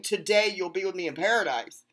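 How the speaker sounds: "Today" leaned on at the start of the line; stress on today. Shown as a demonstration. Showing viewers the true reading, "Today" stressed. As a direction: open firmly on "Today", then run straight on. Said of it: "see, he's not saying".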